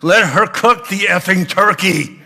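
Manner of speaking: high, loud exasperated outburst, laughing at the end; exasperated scolding. Retold or imitated. Boss scolding Jerry to let his wife cook. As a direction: scold him, fed up. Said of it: "she said".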